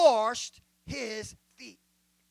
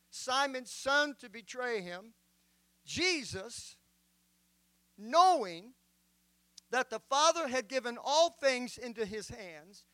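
measured, solemn Bible reading; solemn King James reading; scripture reading. Acted. Reads John 13 aloud.

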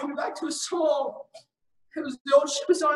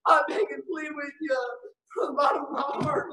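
begging through tears, raised voice; tearful plea. Real, not acted. Preacher begging the lost to come, tearful plea. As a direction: plead with them as you cry.

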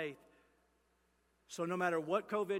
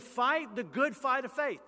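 quoting Paul; 6 semitones higher, 6 dB louder than usual. Retold or imitated. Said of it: "He said".

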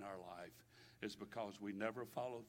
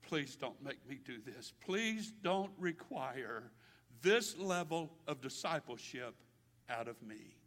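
begging; 7 dB louder, slower than usual. Acted. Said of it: "he was begging".

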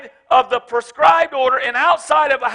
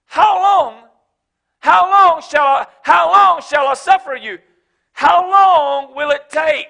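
sorrowful cry; 3 semitones higher, 5 dB louder than usual. Retold or imitated. Jesus crying out to his disciples in sorrow. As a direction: plead it out in sorrow. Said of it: "You've been with me".

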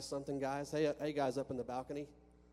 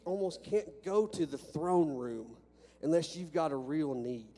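louder, rising preacher's fervour, pressing every phrase; preaching at full force; 7 dB louder than usual. Acted. Preacher urges his church to bring real needs to God, full fervour. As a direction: drive it home to the congregation.

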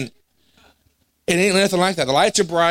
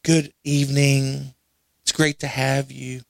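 slow, soft, polite church greeter; a mild mock of a sedate usher welcoming you; quiet, slow, proper welcome; polite formal greeting; 4 semitones lower, 4 dB quieter, slower than usual. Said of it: "I'm thinking they're gonna be like".

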